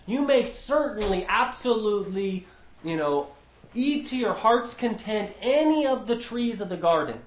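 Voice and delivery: eager emphasis on the permission; emphatic reading. Shown as a demonstration. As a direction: sell the freedom to eat, emphatically. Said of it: "That's emphatic in the Hebrew".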